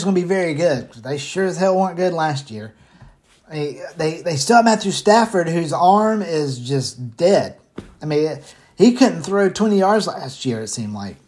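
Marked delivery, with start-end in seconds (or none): 5.5-11.2 winded, short of air; talking while out of breath. Real, not acted. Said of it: "Sorry, I'm getting out of breath".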